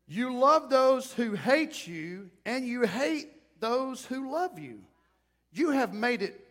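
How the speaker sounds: loud, slow, cutting reproach; stern rebuke. Acted. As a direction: scold him slowly and loudly. Joab rebukes the king.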